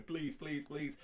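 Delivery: high, mock begging; pleading. Lonely Shiki begs her to stay.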